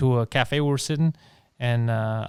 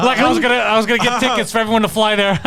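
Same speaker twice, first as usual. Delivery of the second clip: laughing; 7 semitones higher, 4 dB louder than usual. Real, not acted. Laughing through his own story.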